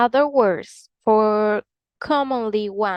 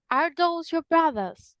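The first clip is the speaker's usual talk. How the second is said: those with an O sound, British, pitched up; British English; 6 semitones higher than usual. Shown as a demonstration. Teacher comparing accents, British English. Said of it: "British English is going to say".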